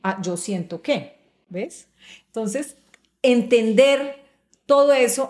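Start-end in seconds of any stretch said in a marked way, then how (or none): 0.0-1.2 soft, trailing "ah, yo siento que", much softer; weaker phrasing. Shown as a demonstration. Speaker shows the weaker emotional phrasing, soft and fading. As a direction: let it fade, the weaker version. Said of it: "tiene más fuerza el argumento".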